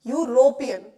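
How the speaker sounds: यूरोपियन loud and deliberate, opening on a clear "yu" glide; sounded-out pronunciation. Shown as a demonstration. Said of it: "इसको ऐसे करना है". (यूरोपियन को ज़ोर से, साफ़ यू-रो-पियन बोलकर)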